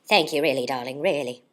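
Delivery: gushing theatrical thanks; Katharine Hepburn. Acted. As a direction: accept applause like a grand star. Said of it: "in a Katharine Hepburn kind of way".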